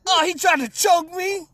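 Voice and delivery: lightly voiced mother, high and slow; a hint of a shocked mom, drawn out; mother's voice. Retelling how the coworker's mom said it, mild mock mother. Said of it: "And she said".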